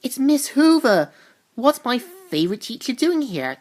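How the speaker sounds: hushed astonishment. Retold or imitated. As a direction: gasp out a discovery while hiding. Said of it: "Lisa mainly hides and says".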